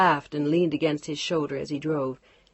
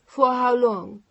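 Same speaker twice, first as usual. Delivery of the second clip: demanding; 7 semitones higher, 7 dB louder, slower than usual. Acted. Chantal pressing Mark.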